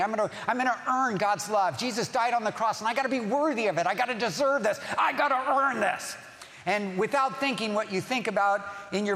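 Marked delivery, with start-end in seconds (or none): 0.0-6.2 mock-earnest striving, pitch climbing to the end; striving insistence. Preacher voicing a believer who thinks love must be earned, mounting insistence. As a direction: build to a higher, strained insistence.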